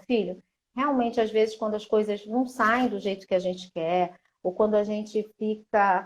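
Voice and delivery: soft, tender mother explaining sadness; soft consoling. Shown as a demonstration. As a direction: comfort the child softly.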